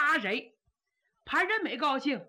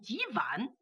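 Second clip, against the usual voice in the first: whispered; 2 semitones lower, 5 dB quieter than usual. Acted. Narrator mishearing aside.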